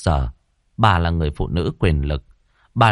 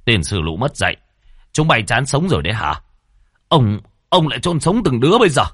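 angry master cursing the servants, higher at the end; furious landlord; 4 semitones higher than usual. Acted. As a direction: swear at the servants, red-faced with rage. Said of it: "tức đến tím cả mặt".

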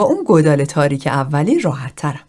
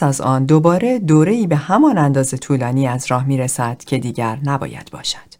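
measured, even-toned recitation; reciting from memory; 3 semitones lower than usual. A narrator's reading. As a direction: recite a memorized philosophical passage evenly. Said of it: "شروع کرد به از بر خواندن". (ازبرخوانی یکنواخت و شمرده)

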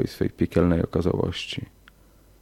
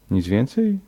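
mild disbelief, rising higher; disbelieving; 4 semitones higher than usual. A narrator's reading. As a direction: ask it as if it can't be all. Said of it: "spytał z niedowierzaniem". (z lekkim niedowierzaniem)

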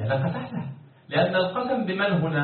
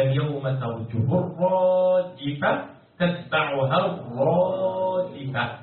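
slow chant holding the long vowels; Quran recitation; much slower than usual. Shown as a demonstration. Teacher repeating the verse for students, drawn-out recitation. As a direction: intone the verse, stretching each rhyme word.

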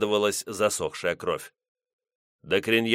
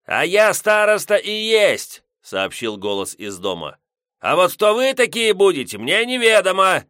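put-on grumpy old man; 10 semitones higher, 6 dB louder than usual. Headman shouting from house.

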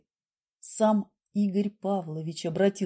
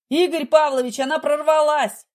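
loud, high alarmed call down the line; guard shouting that she broke through; 6 semitones higher, 6 dB louder than usual. A narrator's reading. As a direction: raise the alarm loudly. Guard panics on the phone.

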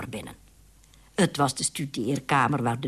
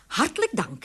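relieved thanks, pitched higher; 7 semitones higher than usual. A narrator's reading. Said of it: "zei de burgemeestervrouw opgelucht".

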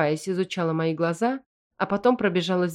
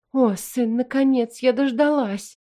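tearful relief, higher; happy tears breaking through; mother weeping with relief; sobbing joy; 7 semitones higher, 4 dB louder than usual. A narrator's reading. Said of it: "всхлипнула родительница".

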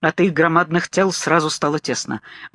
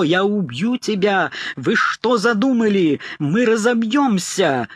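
a mild mock rage, slow and higher; hammed-up frantic threat; furious yell; 4 semitones higher, slower than usual. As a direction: shout it into his face. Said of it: "заорал бешено в лицо".

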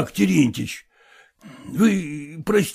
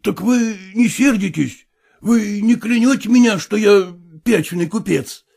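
lightly voiced eager exclamation, a little higher; exclaiming; 4 semitones higher than usual. Relieved father exclaims to the professor, mildly eager. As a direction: burst out hopefully, half-relieved. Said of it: "воскликнул Емельян Иванович".

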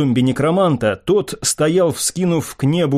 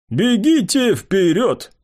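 curt command; 7 semitones higher, slower than usual. A narrator's reading. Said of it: "оборвал меня некромант".

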